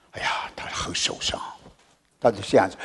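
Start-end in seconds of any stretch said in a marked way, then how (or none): 0.1-1.4 hushed pity. Real, not acted. Pitying aside.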